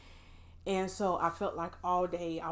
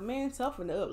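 tough talk; 6 semitones higher than usual. Retold or imitated. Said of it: "sometimes we tell ourselves".

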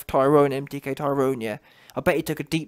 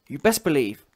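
ordinary delivery

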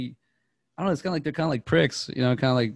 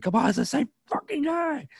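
high-pitched pissed-off impression; really upset. Imitating the actor who sells the scene, high exasperated protest. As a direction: act out mounting exasperation, voice shooting up. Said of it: "he's really upset".

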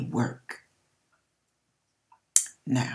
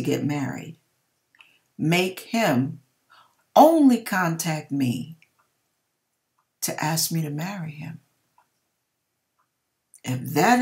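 retold prayer. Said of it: "my sign I had given to God".

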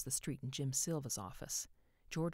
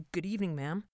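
polite; 4 semitones higher, 6 dB louder than usual. A narrator's reading. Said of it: "he said politely".

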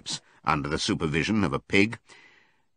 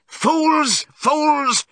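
very high, loud cry of outrage; frantic shout; 6 dB louder than usual. A narrator's reading. Benjamin to the animals waving goodbye, frantic shout. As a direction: yell it at the top of the voice. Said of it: "shouted Benjamin".

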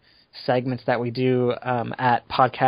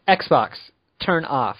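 slightly raised, deliberate command; loud voice command; slower than usual. Shown as a demonstration. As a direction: address the console in separate, firm words. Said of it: "can you say it very loudly".

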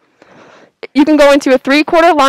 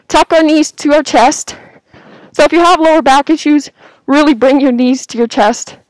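out of breath. Real, not acted. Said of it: "Sorry, I'm out of breath, this mask".

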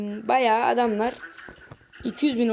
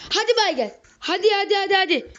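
mocking taunt; 5 semitones higher than usual. Real, not acted. Taunting enemy leaving.

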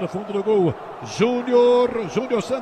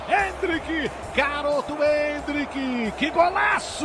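fast, excited live play-by-play; brazilian football narration. Real, not acted. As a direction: call the goal replay like radio. Live radio football commentary. (narração de futebol no rádio)

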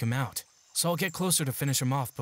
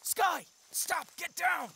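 much higher, sharp urgent call; urgent warning; much slower than usual. Acted. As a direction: stop her before she's seen. Spotting goblins, warning partner.

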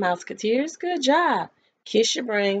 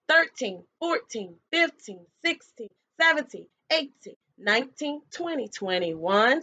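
counting aloud. Shown as a demonstration. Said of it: "I want you to count for me".

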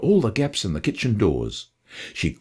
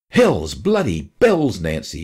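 a slow, understated shout at his wife; a touch of an angry shout; mild shout; 4 semitones lower, 3 dB louder, slower than usual. Acted. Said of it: "shouted Dad".

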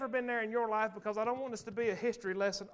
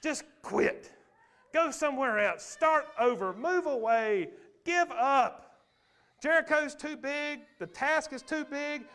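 mock voice of fear, opening in a harsh unvoiced whisper then louder; 4 semitones higher, 3 dB louder than usual. Fear whispering and nagging at the believer, hammed-up voice. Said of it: "fear says".

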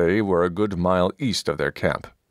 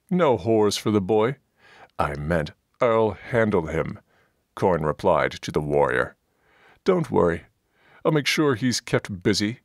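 lightly voiced dwarf, a bit higher and brash; gruff dwarf Coin; 4 semitones higher than usual. Dwarf leader ordering his comrades about, brash and crude. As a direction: boss the party around like a crude dwarf.

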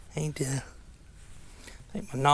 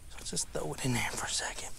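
whisper; 6 dB quieter than usual. Real, not acted. Quiet aside while casting.

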